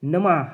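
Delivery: "नमः" with its visarga heard as ह; audible final h. Shown as a demonstration. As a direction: demonstrate "नमः" as na-mah, ending on h. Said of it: "ह की sound जो है".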